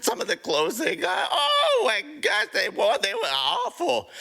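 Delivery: high, laughing exclamations; laughing while talking. Acted. Rocket mocking shoppers' clothes, laughing high. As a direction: gasp it out through laughter.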